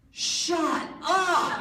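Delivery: loud, high cry of disbelief; big incredulous shout; stunned outburst. Retold or imitated. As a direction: blurt it out high and loud, utterly amazed. Astonished reply to record news.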